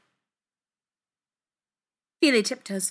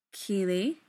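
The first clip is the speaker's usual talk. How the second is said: level. A narrator's reading. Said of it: "he says levelly".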